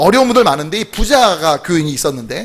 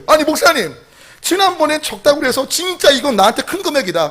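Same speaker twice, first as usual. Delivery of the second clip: mock angry protest; 6 semitones higher than usual. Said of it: "더 화가 난 거예요".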